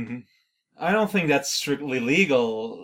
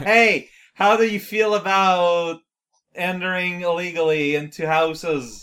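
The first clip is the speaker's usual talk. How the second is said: raised voice, starting high and loud; shouting; 3 semitones higher, 4 dB louder than usual. Acted. Player getting closer to shout a question, raised mock shout. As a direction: call out to someone at a distance. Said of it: "I'm gonna shout".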